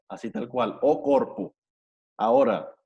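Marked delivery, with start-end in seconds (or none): 0.8-1.5 corpo with its final o said as a plain O; showing students the singular, final O said as written; final O kept. Shown as a demonstration. Teacher demonstrates the singular, corpo ending in a plain O. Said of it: "se lee como si, como O".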